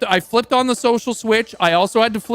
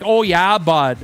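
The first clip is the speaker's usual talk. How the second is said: put-on local Canadian accent; slower than usual. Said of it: "they had that same accent".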